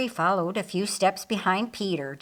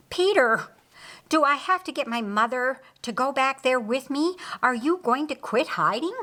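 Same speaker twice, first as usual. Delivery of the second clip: furious; 5 semitones higher than usual. Acted. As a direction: snap at him, fed up. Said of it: "Mary Magdalene was furious".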